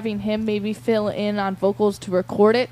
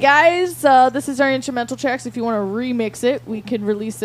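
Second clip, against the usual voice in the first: mock announcement; 3 semitones higher, 5 dB louder than usual. Host playing the band pitching tracks to remixers, mock announcement. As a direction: pretend to hail a crowd, easing off after the greeting.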